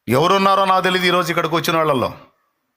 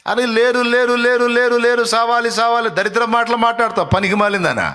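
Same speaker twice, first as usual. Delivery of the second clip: mock taunting accuser; 4 semitones higher than usual. Mocking accuser voiced.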